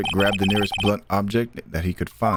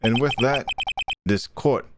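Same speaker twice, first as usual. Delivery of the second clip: put-on judge's accented voice. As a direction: close court in an accented judge voice. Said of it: "I changed his accent halfway through".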